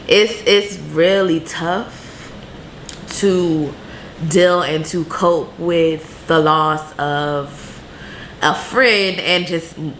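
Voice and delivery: slow, choked-up voice near tears; fighting back tears, words coming slowly; tearing up. Real, not acted. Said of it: "I am tearing up talking about".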